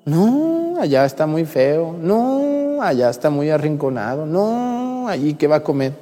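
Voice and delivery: hammed-up dismay; mock-sad lament. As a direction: imitate fretting parishioners, pitch leaping up. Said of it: "la gente se pone triste y dice".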